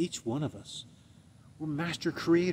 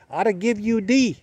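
high, loud mock teacher voice; imitated lady teacher; 9 semitones higher, 5 dB louder than usual. Spanish teacher telling a student about his grade, high imitated voice. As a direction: mimic the lady, pitched well up. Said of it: "She goes".

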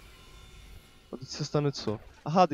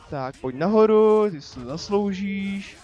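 loud taunt; 4 semitones higher, 4 dB louder than usual. Real, not acted. Taunting enemy into air.

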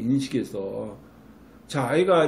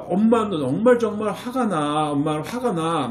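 expressing anger; 4 semitones higher than usual. Shown as a demonstration. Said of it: "엄마가 화가 나면".

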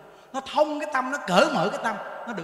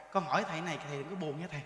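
timid question; 6 semitones lower, 10 dB quieter, faster than usual. Retold or imitated. Con trai rụt rè hỏi thầy.

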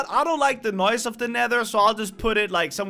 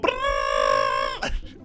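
bee buzz imitation. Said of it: "that kinda does sound like a bee".

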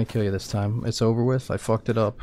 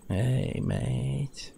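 light, softer mock British accent; quick imitation of his British accent, a bit higher; 4 semitones higher, 5 dB quieter than usual. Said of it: "He's got that nice accent".

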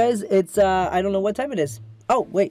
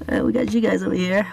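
calming himself. Real, not acted. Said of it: "calm down".

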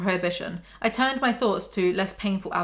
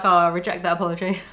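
haughty dismissal; 3 semitones lower, faster than usual. Pretend. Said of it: "You can be like".

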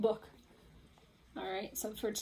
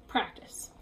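whispered practice; 4 dB quieter than usual. Acted. Whispered word after pause.

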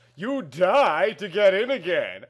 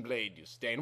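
lower, softer echoed repeat; quiet echo; 5 semitones lower, 13 dB quieter than usual. Acted. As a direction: echo it back faintly. Echo of the line before.

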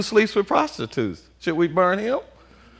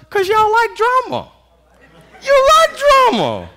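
teasing; 4 dB louder than usual. Real, not acted. Teasing congregation, rising.

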